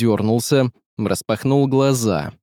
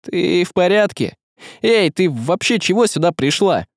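worried, raised-pitch questioning; frightened question; 6 semitones higher than usual. Acted. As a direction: check anxiously on someone hurt. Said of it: "спросил испуганно".

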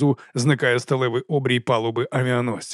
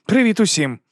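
high, loud happy greeting; much higher, louder joyful hello; cheerful exclamation; 9 semitones higher, 4 dB louder than usual. A narrator's reading. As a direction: call out a bright hello to everyone. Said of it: "радісно вигукує".

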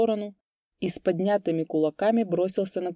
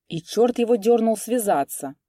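reproachful; 4 semitones higher, 5 dB louder than usual. A narrator's reading. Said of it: "укоризненно проговорил Васька".

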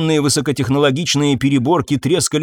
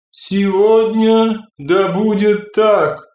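ringing crystal chime voice; 8 semitones higher, much slower than usual. Acted. The Sella figure answers.

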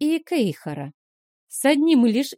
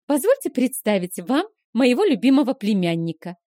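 cooing; 3 semitones higher, 4 dB louder than usual. Acted. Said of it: "ворковала Вилма".

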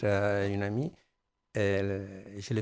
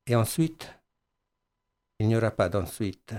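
measured, louder poem recital with long pauses; poem reading; 4 dB louder than usual. Acted. Reads his own poem aloud.

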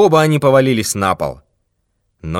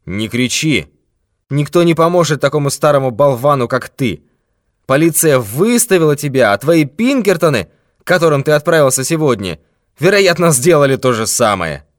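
threatening thief; 4 semitones higher, 3 dB louder than usual. Acted. Thief threatens old man with death, menacing. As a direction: promise him his last hour.

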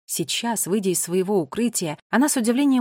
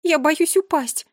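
slow, high, frightened voice; drawn-out timid plea; plaintive fear; 7 semitones higher, 5 dB louder, slower than usual. A narrator's reading. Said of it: "пожаловалась она".

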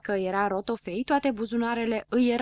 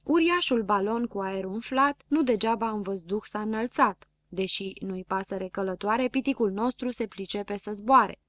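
poem recital. A narrator's reading. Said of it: "începu să recite poezia".

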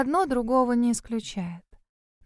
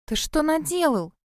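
despairing outcry, higher; 6 semitones higher than usual. A narrator's reading. Cassie cries out in despair at Grove. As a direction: cry out in dismay at him. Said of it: "с отчаянием воскликнула я".

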